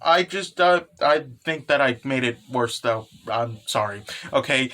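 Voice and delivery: mildly flustered stammering excuse; cute panic. Acted. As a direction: act a touch panicky, hesitating through a confession. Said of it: "goes into basically just panic mode".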